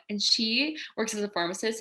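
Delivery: ordinary delivery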